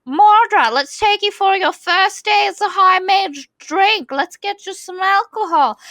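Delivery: high, boisterous bro voice; rowdy coworkers egging him on; mocking jock voice. Boys inviting him for drinks.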